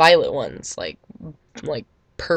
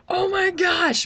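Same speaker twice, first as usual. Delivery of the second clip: mock shock; 14 semitones higher, slower than usual. Fans' reaction to twist.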